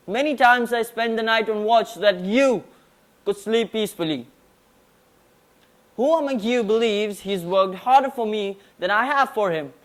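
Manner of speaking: formal declamation; prim precise elocution. Acted. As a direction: deliver it like a stage oration. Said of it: "present a declamation on Alexander the Great".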